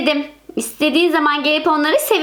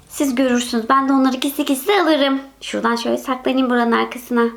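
scheming plotter; 4 semitones lower than usual. Acted. Owner plots to steal the dogs back secretly, low sneaky aside. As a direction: mutter the plan to yourself.

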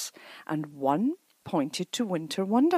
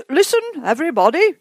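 fast, loud, higher call for attention; 11 semitones higher, 11 dB louder, much faster than usual. A narrator's reading. Mister Brown calling the family to listen to the leaflet, loudly. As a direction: grab the whole family's attention. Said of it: "he called".

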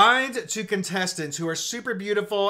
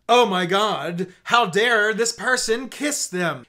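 slow, scandalized gasp of a prude; lightly voiced shocked prude; prim Victorian prude; 3 dB louder, slower than usual. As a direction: clutch the pearls like a Victorian prude, slowly. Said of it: "Victorian era prude is like".

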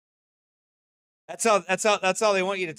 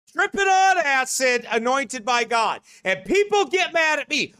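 preaching at full force; 7 semitones higher, 5 dB louder, slower than usual. Acted. Preacher rails at the crowd.

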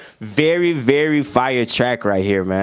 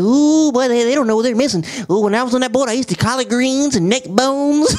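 country white teacher; 10 semitones higher than usual. Retold or imitated. Teacher reminisces about eating on the boat, high country voice. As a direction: crow it like the old teacher on his boat. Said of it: "Very funny country white guy".

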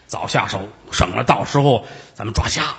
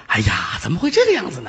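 mock shock; 3 semitones higher than usual. Nephew feigns shock.

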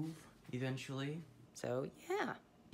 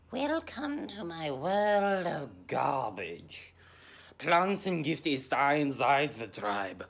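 slow, louder showman welcome with German flourish; mock grand host; 3 semitones higher, 11 dB louder, slower than usual. Welcoming viewers to his garbage room, slow pompous host. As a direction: play a pompous tour host, slowly. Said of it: "don't know why I'm speaking German".

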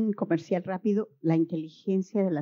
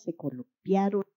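ordinary delivery

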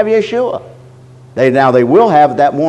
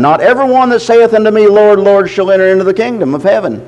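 raised, declaiming scripture reading; 3 semitones higher than usual. Acted. Preacher reads verse twenty-one to the believers, raised and declaiming. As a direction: proclaim the verse.

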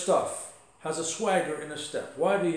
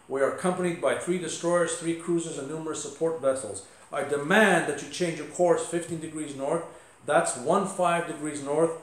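mildly stern listing of his forces; a touch of frustrated command; stern captain. Retold or imitated. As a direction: act out a captain making a firm demand. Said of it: "in a stern voice".

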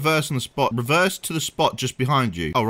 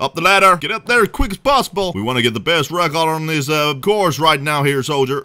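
put-on American accent. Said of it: "How's my American accent?".

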